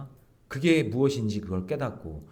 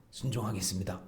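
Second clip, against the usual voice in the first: "순종하겠습니다" said softer again, falling; mock pledge again; 4 semitones lower, 9 dB quieter than usual. People of Judah promising obedience with their lips, hollow and soft. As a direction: repeat "순종하겠습니다" quietly as an empty promise. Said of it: "이렇게 말을 했는데".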